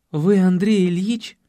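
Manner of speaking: usual speaking voice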